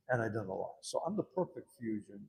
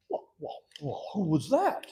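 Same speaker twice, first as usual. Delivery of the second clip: probing question; 6 semitones higher, 6 dB louder, slower than usual. Retold or imitated. He questions resident, acted.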